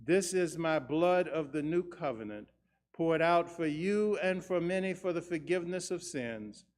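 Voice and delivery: solemn, measured prayer voice; liturgical prayer. Acted. Words of institution prayer.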